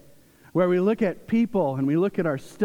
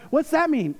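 high, irritated imitation of a child; higher-pitched miffed question; mock annoyed daughter; 11 semitones higher, 3 dB louder than usual. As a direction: imitate an indignant little sister. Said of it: "she gets mad".

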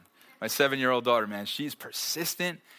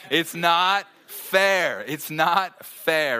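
very slow, higher, louder drawn-out whine; whining little girl; 3 semitones higher, 6 dB louder, much slower than usual. Retold or imitated. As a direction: stretch every word like a sulking child. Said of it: "Someone was that little girl".

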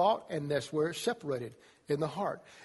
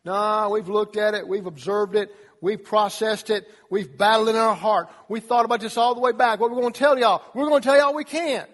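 louder, insistent no; stubborn refusal; 3 semitones higher, 7 dB louder than usual. Retold or imitated. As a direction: dig in and refuse. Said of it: "The other guy said".

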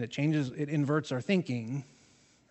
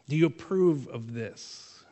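slow, pointed accusing question; accusatory. Retold or imitated. Pharisees accusing Jesus over unwashed hands, slow and accusatory. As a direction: lean on it like a trap. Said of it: "Kind of in that tone that's accusatory".

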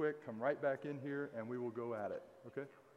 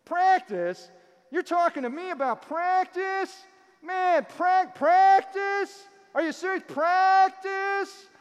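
put-on high, shouted Indiana-accent rant; hammed-up Indiana accent, loud and incredulous; Allen Iverson, Indiana accent; 16 dB louder, slower than usual. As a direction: imitate an indignant athlete's outburst in an Indiana accent. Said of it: "try to do the Indiana accent".

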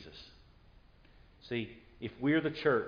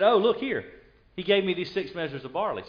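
eager showing off; 4 semitones higher, 4 dB louder than usual. Acted. Ruth showing Naomi the gift.

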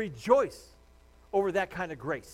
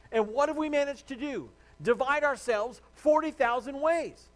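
higher, louder, slow rebuke; rising rebuke; 6 semitones higher, 4 dB louder than usual. Real, not acted. Pastor scolding churches for dividing, loud and slow.

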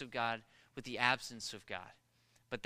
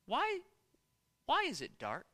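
high-pitched mock child question; little boy at bedtime; 10 semitones higher than usual. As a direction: imitate a small son squeaking out a question. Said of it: "he's just".

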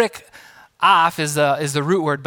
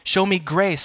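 pleading subject. Pretend. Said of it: "coming to a king and saying".

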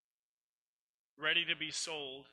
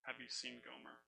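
much softer, lower, secretive question; asked quietly; 4 semitones lower, 13 dB quieter than usual. Acted. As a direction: hush it so nobody overhears. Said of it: "he asks her just real quietly".

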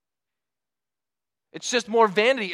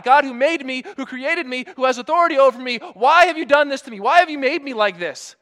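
louder, higher indignant demand; complaining to God; 5 semitones higher, 5 dB louder than usual. Retold or imitated. A believer accusing the God who made him, indignant. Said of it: "we would like to say that to God".

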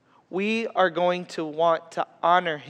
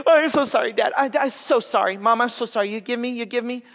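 higher, mock little girl begging sorry; pleading toddler; 5 semitones higher than usual. Dad imitating his daughter begging forgiveness. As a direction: whimper out apologies like a kid.

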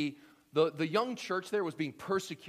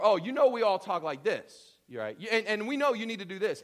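loud, higher, smug insider voice; legalistic churchgoer; 6 semitones higher, 11 dB louder than usual. Retold or imitated. Pastor mocking a controlling church member, loud and preachy. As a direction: lecture newcomers like you own the rules.

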